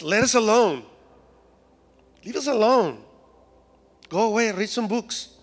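hammed-up shout to be left in peace; mock outburst. Acts people complaining, movie quote.

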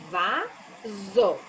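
"Vaso" drawn out slowly, syllable by syllable; "Vaso" said long and slow for counting syllables; stretched for syllables. Shown as a demonstration. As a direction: lengthen "Vaso" to let each syllable be heard. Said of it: "Duas sílabas".

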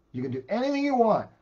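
high, loud booming command; God's command. Retold or imitated. God telling Adam and Eve the one rule, loud and commanding. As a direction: proclaim it like God laying down the law.

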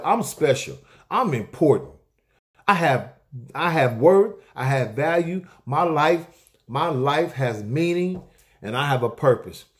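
"I'm special" declared with rising conviction; self-affirmation. Shown as a demonstration. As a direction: say it to yourself like you mean it. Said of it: "You can say it yourself".

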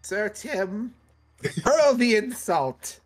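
high, drawn-out commanding character voice; Sister Aggie. Acted. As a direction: channel a command in a high, slow voice. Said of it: "Sister Aggie was just like".

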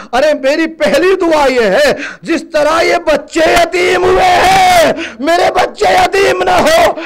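rising cry of a grieving woman; wailed plea. Acted. Mourner pleading aloud to God for her children. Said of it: "اس نے کہا".

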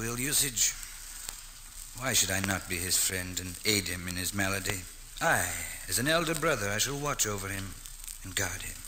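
soft pitying aside; quiet musing. Acted. Miles alone, pitying the lad, quiet aside. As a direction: think aloud gently.

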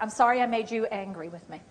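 sincere apology. Shown as a demonstration. Coach modelling an apology to a partner, sincere. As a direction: apologize gently, taking the blame.

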